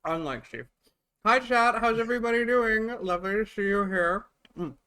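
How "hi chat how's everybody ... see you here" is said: excited greeting. Real, not acted. Cheery greeting to stream chat.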